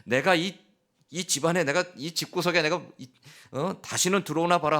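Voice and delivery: mock teenage rage; angry teen outburst. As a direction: bark it like a sulking son slamming the door. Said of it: "사춘기 아들이 ... 버럭 화를 내면서".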